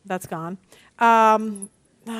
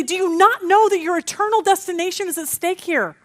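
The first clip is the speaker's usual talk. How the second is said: mild mock yell, pitched up; exasperated plea, raised but held back; imagined urgent scream; 6 semitones higher than usual. Wanting to scream at the silent massage girl, urgent mock outcry. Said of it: "I want to just scream to her".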